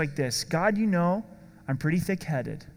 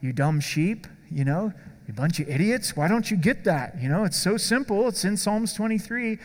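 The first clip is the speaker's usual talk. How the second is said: imitating an impatient teacher; mock exasperated scolding. Teacher scolding sheep who don't get it, mock exasperation. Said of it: "He doesn't say".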